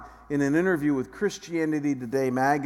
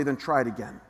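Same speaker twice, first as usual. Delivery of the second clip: calm advice; 3 semitones lower than usual. Shown as a demonstration. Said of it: "I'll say".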